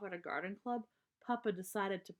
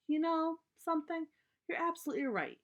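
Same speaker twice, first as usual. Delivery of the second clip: higher, pleasantly surprised mother; lightly voiced mom agreeing with a twinkle; Mama voice; 9 semitones higher than usual. Mama tells Papa he's right, in a higher voice.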